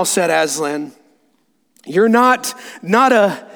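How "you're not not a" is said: halting, higher question that breaks off; falter, unable to finish; shaky voice. Acted. Susan fearing to say ghost, shaky voice. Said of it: "asked Susan in a shaky voice".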